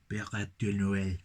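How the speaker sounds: slow "Biere di Noel" in a hammed-up French accent; over-the-top French accent. Shown as a demonstration. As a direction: lay the French accent on thick, slowly. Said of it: "That just sounds like a over-the-top, stereotypical "Allô, allô," French accent".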